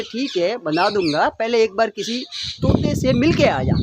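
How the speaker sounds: put-on an old holy man hushing a crying bird; lightly voiced old sage.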